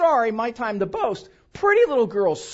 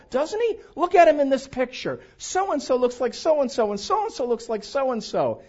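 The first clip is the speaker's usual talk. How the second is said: gushing relatives; 3 semitones higher than usual. Retold or imitated. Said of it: "start this line of talk".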